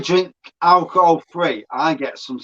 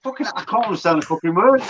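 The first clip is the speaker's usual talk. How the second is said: retold bafflement; 3 semitones higher, much faster than usual. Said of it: "It was going that fast then".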